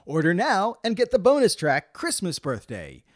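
upbeat ad read, salesman voice; infomercial. Acted. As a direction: pitch it like a cheesy TV ad. Sponsor ad read on podcast.

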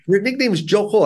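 "Koy" pronounced as "Koh"; aunt's correct pronunciation. Retold or imitated. Aunt telling her nephew his nickname, "Koy" said "Koh". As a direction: end "Koy" on a long o, no y glide. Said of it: "supposed to be Jo Koh".

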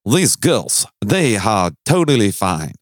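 slow, high drawling southern gent; old southern gentleman. Pretend. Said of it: "talks like a Southern gentleman".

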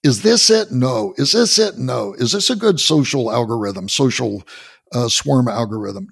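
sarcastic send-up of random design; mocking blind guessing. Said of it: "You can't have".

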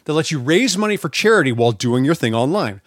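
upbeat sponsor read. Acted. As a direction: read it like a podcast ad. Reads sponsor ad.

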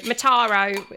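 an awful attempt at an Australian accent on Mataro; failed Australian accent. Shown as a demonstration. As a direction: try Mataro the Australian way and miss. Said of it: "me trying to put on an Australian accent".

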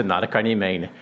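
laughing through the words in disbelief; half-laughing, can't believe the offer; retold reply with a laugh running through it. Retold stunned reply to jacket offer.

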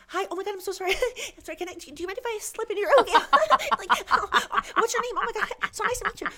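breathless high-pitched people-pleaser; bubbly apologetic gush. Retold or imitated. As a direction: gush at a fan like you're desperate to please. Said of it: "I'm like".

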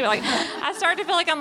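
high laughing words, breaking up. Real, not acted. Telling the audience about stress, laughing. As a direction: laugh through it at yourself.

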